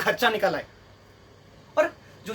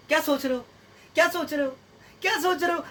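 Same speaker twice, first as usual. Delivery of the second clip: repeated higher-pitched mock prodding; mock nagging girlfriend; 4 semitones higher than usual. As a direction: nag lightly in an imitated woman's voice. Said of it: "आदमी शांति से कोने में चुपचाप बैठा है".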